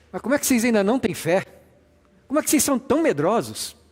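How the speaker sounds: high, shouting, scolding voice. Reading Jesus rebuking the fearful disciples one way: Jesus yelling at disciples. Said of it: "eu não consigo imaginar ele gritando com os discípulos".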